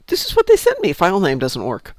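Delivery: quoting the tech. Retold or imitated. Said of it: "and he said".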